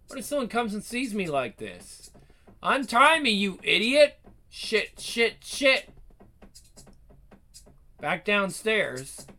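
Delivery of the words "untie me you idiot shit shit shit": strained angry cursing, high and loud; struggling against restraints. Acted. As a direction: fight the ropes while swearing.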